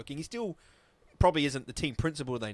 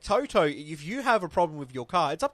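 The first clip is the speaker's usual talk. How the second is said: louder, higher mocking reply; mock group retort; 3 semitones higher, 3 dB louder than usual. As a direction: throw it back at Toto loudly. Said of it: "And they're all like".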